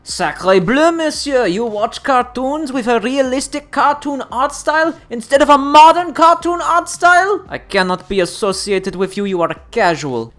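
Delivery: high, loud mock French accent; hammed-up outraged Frenchman; french chef. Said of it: "Imagine for a moment if we applied this hardcore gamer mindset".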